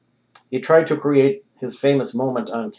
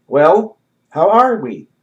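cheery doctor greeting; 5 semitones higher, 8 dB louder, slower than usual. A narrator's reading.

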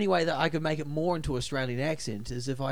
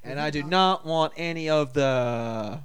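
badly faked Chinese-American accent; slow, half-hearted American Chinese accent. Shown as a demonstration. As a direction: attempt a Chinese accent, slowly. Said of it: "an American Chinese accent".

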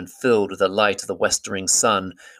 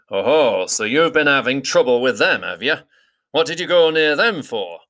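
louder, higher skeptical challenge; Beorn demanding; 5 semitones higher, 5 dB louder than usual. A narrator's reading. Beorn doubting Gandalf and demanding his purpose. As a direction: press the stranger for an answer.

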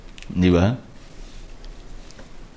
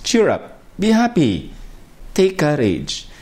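higher, bright cheer up; cheerful encouragement; 3 semitones higher than usual. Shown as a demonstration. Jesus telling the disciples to cheer up, higher and bright. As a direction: lift them up with a higher, brighter voice. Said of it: "it is translated as, "Cheer up".

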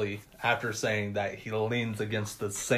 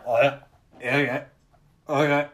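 short strained dying noises, spaced out; imitated dying grunts; 3 semitones higher, 4 dB louder than usual. Dying cop trying to radio for help, imitated grunts. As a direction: separate wordless grunts into a radio.

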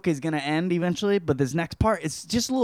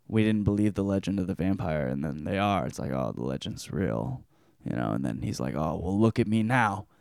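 mock solemn lament; 5 semitones lower than usual. Neville's final defeated speech.

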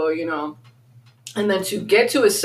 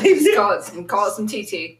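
laughing; 2 semitones higher than usual. Real, not acted.

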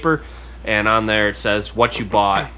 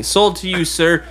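auctioneer's sale call; 7 semitones higher, 3 dB louder than usual. Acted. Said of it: "he bangs the little gavel thing".

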